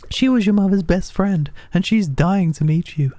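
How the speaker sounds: high, friendly village woman; high character voice. Acted. Voices game character dialogue.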